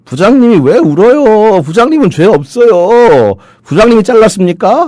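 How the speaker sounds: strange shrieking shout, very high and loud. Retelling what a subordinate in his thirties yelled to the department head: imitating strange shouting. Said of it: "고함을 지르는데 이상한 고함을 질러요".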